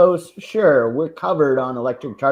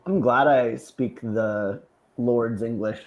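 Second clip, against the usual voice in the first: mock posh English; 3 dB louder than usual. Mocking her own proper English for friends, light mock British accent. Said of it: "Sounds very Queen Isabel there".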